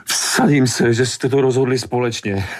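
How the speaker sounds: high, bitter accusation breaking into laughter; furious, hysterical woman; fit of rage. A narrator's reading. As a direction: accuse with rising hysteria, pitched well up. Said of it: "Upadla do nového záchvatu vzteku".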